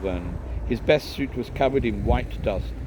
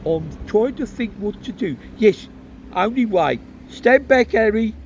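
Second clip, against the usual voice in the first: higher, louder, deciding and warning; lightly voiced father; 11 semitones higher, 6 dB louder than usual. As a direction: clear the way, firm but kind. Father decides and warns Harry.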